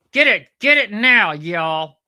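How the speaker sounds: loud, high, punched command; emphatic urging. Real, not acted. The speaker urging viewers to get a colonoscopy, emphatic. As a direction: press them to act now.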